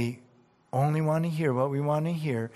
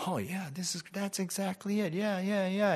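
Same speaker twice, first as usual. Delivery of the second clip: smug agreement; 6 semitones higher, 7 dB quieter than usual. Retold or imitated. Mocking a selective reader.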